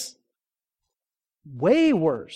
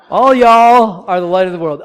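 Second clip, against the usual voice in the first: loud, laughing proclamation; laughing exclamation; 2 semitones higher, 12 dB louder than usual. Real, not acted. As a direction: call it out to the church through a laugh. Pastor exclaims through laughter.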